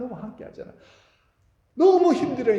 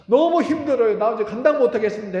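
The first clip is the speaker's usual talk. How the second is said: Moses complaining; 6 semitones higher, 7 dB louder than usual. Acted.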